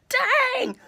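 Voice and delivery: high, loud cry of disbelief; shocked exclamation. Real, not acted. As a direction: yelp it out in shock. Exclaims at his reaction.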